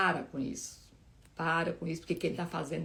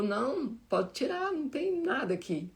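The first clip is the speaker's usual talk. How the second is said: imitating the doctor, pitched much higher on pode tirar; the doctor telling her the drain can come out, higher and lively; doctor's cheerful reassurance; 7 semitones higher than usual. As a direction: bounce up brightly, as the doctor announcing good news. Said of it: "aí ele falou".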